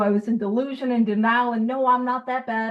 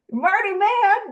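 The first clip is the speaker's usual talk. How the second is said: Marty Mann drawn out slowly, pitched much higher; excited name drop; 9 semitones higher, slower than usual. Real, not acted. Sharing AA history news with the group, excited and drawn out. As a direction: savour the name like a celebrity.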